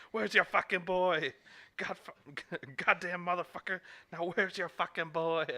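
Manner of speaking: high, loud hammed-up demand; imitated angry yell. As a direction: shout it as an enraged movie heavy. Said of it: "used to yell, "Where's your boy?".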